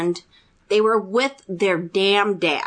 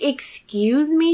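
slow, higher-pitched affronted question; indignant disbelief; 6 semitones higher, slower than usual. Retold or imitated. Daughter told to be ashamed, indignant disbelief. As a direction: draw it out as if offended. Retelling quarrel with mother.

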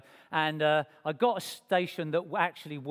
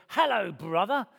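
churchy greeting; 3 semitones higher, 3 dB louder than usual. Retold or imitated. Doorman greets him at church.

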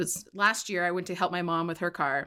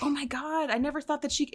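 gushing sweet talk; 8 semitones higher than usual. Retold or imitated. Retold sweet-talking the mechanic.

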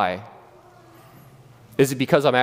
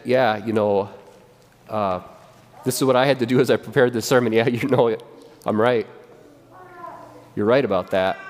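rueful admission; 3 semitones lower than usual. Retold or imitated. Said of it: "and you said".

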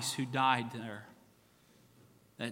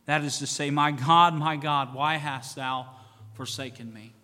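louder anguished cry, slowing at the end; Jesus crying out forsaken on the cross; 5 dB louder than usual. Acted. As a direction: cry out in abandonment. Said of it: "Jesus cried with a loud voice".

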